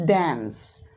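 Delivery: "dance" with a short flat-a vowel, as in cat; American-style "dance", front a sound. Shown as a demonstration. Teacher repeating American "dance" for learners, short a. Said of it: "a sound".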